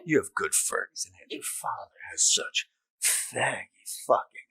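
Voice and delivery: lightly imitating a disgusted mother, slowing down. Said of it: "she was disgusted".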